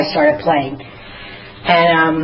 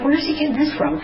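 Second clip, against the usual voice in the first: amazed; 9 semitones higher, 4 dB quieter than usual. Retold or imitated. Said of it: "I'm like".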